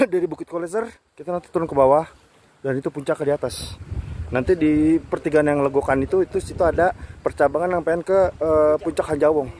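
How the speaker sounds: loud voice against strong wind; shouting over wind. Real, not acted. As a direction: raise your voice over the gusts. Windy summit, calls to camera.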